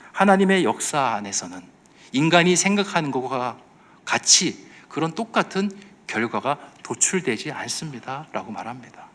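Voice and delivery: normal talking voice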